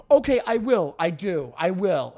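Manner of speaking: condescending assent, settling down after the first word; patronizing. Retold or imitated. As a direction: imitate humoring someone with overdone agreement. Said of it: "Like, very patronizing back".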